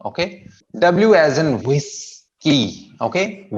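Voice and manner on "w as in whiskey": very slow whiskey, WHIS held, key short; long first syllable. Shown as a demonstration. Teacher introducing whiskey, first syllable lengthened. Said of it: "whis लंबा जाता है".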